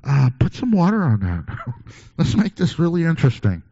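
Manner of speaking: egging them on with a chuckle; cocky challenge through a laugh; playful dare. Retold or imitated. Elijah voiced daring the prophets.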